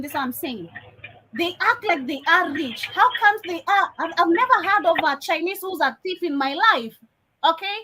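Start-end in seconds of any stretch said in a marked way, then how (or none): 1.3-7.8 mock disbelief, never stressed; sarcasm. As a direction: feign innocence to mock them. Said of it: "understand the sarcasm".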